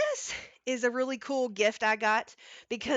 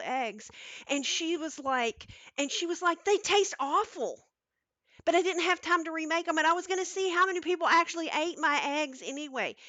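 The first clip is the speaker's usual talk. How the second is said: lightly voiced mom, higher, brisk; mom voice, owning up; 5 semitones higher than usual. Mom telling Jeff the eggs taste awful, higher mock voice. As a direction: admit the prank with a grin. Mom admits the salt accident.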